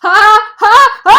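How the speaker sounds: slow, rising loud pre-sneeze stammer; gasping toward a sneeze; sneeze build-up. A narrator's reading. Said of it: "And Piggy says".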